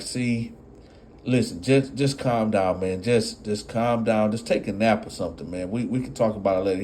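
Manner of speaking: put-on soft calming girlfriend; gentle mock soothing. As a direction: settle him down. She soothes him.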